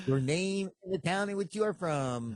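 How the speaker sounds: lightly voiced faith-healer preacher; Ernest Angley impression. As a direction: put the formal question like a TV preacher. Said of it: "he would always start the same way".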